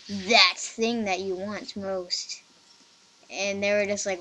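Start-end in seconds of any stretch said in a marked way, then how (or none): 0.1-2.4 THAT set apart, drawn out slowly; slow ominous weight on THAT and the words after; capitalised emphasis. Retold or imitated. Retelling game's offer to friend, slow emphasis on THAT. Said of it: "in all capitals, the word that".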